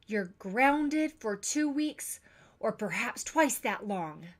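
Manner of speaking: stern scolding. Acted. Parent scolds over the vase.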